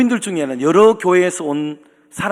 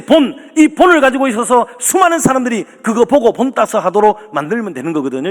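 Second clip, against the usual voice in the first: raised, emphatic pulpit listing; preaching; 4 semitones higher, 4 dB louder than usual. Acted. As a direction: proclaim each example with conviction. Preaches the church as model. (힘주어 선포하는 설교조)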